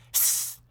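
a drawn-out imitated snake hiss. The snake hissing at the old lady. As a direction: hiss like the snake before it bites. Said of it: "he went".

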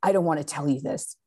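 mildly grumbled, grudging confession; retold grumble, admitting it against your will; grumbling. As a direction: imitate a reluctant kid owning up. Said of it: "in a grumbling voice".

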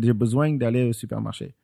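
southern French with bezwang, rising and falling melody; southern French accent. Shown as a demonstration. Repeating the southern French version for her friend, flowy. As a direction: let it flow with ups and downs, southern style. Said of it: "more ups and downs".

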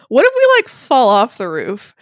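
high, loud burst of worry that slows at the end; mock panic as a friend pictures falling off the roof; alarmed quote. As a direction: blurt the fear of falling, then drag it out. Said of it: "Peter's like".

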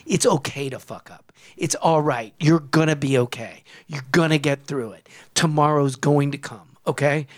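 lightly preacherly reassurance; a touch of the pulpit, in measured phrases. Real, not acted. Host telling listeners it's okay to fuck up, preacher-like. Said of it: "I know I'm sounding like a preacher here".

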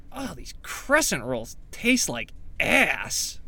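slow, drawn-out audition read of a bully; hint of a bully, words stretched out; Doughboy bully. Actor auditioning as Pillsbury Doughboy bully, slowly drawn-out bully read. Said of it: "reading for the part of Pillsbury Doughboy Bully".

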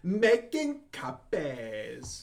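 slow, drawn-out SNL copier guy; Rob Schneider impression. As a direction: drag out the catchphrase lazily. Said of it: "know how to do a Rob Schneider".

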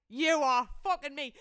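loud, slow, word-by-word incredulity; stunned disbelief. Retold or imitated. Guest handed a whole bottle of Moët, incredulous. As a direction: punch each word in amazement.

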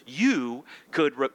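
speaking through a cough; coughing fit. Real, not acted. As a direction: voice catching between coughs. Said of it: "sorry for the coughing".

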